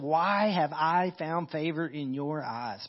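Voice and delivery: slow, softened awe; humble wonder. Acted. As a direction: let grace fill the question. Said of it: "a statement of grace".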